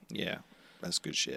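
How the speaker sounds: whispering. Pretend. Echoing the phrase.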